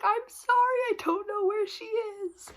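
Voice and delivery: a hammed-up polite stranger who doesn't know; put-on stranger voice. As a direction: pretend to be someone else entirely. Faking amnesia, high put-on voice.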